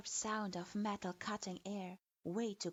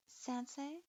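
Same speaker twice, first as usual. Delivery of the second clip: confused question; 5 semitones higher than usual. A narrator's reading. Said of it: "feeling rather confused".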